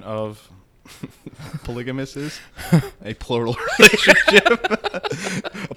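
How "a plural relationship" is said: slow, drawn-out teasing laugh; mock her phrase slowly. Mocking cohost's chosen term.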